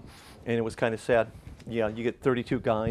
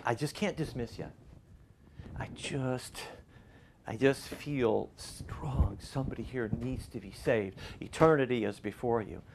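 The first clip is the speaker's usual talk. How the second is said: imitating the preacher; 6 dB quieter than usual. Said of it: "And he goes".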